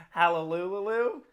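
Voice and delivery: drawn-out Aussie hallelujah, lifted at the end; playful stretched Australian delivery; mock Australian accent. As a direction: try it slowly in an Australian accent. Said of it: "in, like, an Australian accent".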